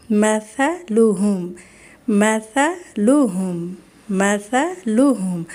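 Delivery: مثلہم slow, soft ث with tongue between teeth, no س sound; soft tha in مثلہم. Shown as a demonstration. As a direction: stretch out مثلہم gently with a soft lisped ث. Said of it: "سامنے والے دو دانتوں کے درمیان میں یوں کر کے". (مثلہم نرمی سے، ث کی آواز زبان دانتوں کے بیچ)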